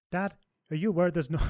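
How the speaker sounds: slipping into an Irish lilt by mistake; Irish accent crept in unintended; accidental Irish accent. Retold or imitated. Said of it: "I'm still doing the Irish accent".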